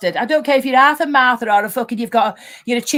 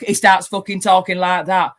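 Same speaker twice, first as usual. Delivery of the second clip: slightly lowered attempt at a man's voice; 3 semitones lower than usual. Woman imitating Ultra once called a bloke, man's voice. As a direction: lightly mimic a bloke talking. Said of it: "I can't do a man's voice".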